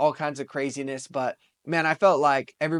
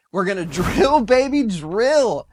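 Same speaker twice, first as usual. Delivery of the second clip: put-on loud, high, slow chant of drill baby drill with a laugh; hyped slogan; 6 semitones higher, 8 dB louder than usual. Hyping Trump's energy slogan to his viewers, loud slow rally chant. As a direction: belt the slogan like a rally cry.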